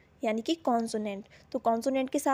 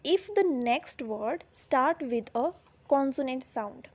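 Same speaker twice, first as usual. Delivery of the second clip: slow dictation; much slower than usual. Shown as a demonstration. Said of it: "teacher dictating the rule slowly".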